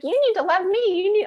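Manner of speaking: hammed-up needy demand; mock demanding self. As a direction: parody her younger self making demands. Mocking her own old demands.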